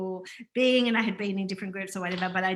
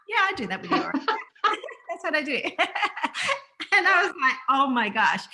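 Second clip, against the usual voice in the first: higher, quoting through laughter; laughing retelling; 7 semitones higher, much faster than usual. Retold or imitated. Retelling the guest's reply to her, laughing. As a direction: break into laughs between the quoted lines.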